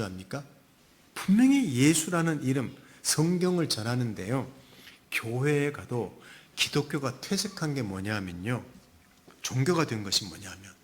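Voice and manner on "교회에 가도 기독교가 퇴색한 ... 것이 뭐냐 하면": ordinary delivery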